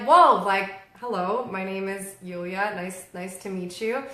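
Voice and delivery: a wary, measured introduction back; taken-aback polite reply. Retold or imitated.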